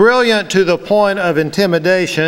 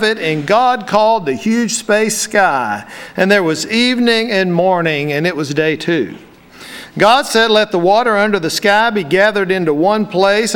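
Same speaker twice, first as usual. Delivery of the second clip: raised, solemn Bible reading; scripture reading; 3 semitones higher than usual. Acted. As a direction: read Genesis to the congregation with reverence. Reads Genesis aloud to the congregation.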